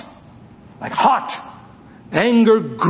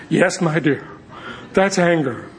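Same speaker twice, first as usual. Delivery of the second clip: calm father. Retold or imitated. Father answers little daughter, calm and composed. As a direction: drop back to an unruffled daddy voice.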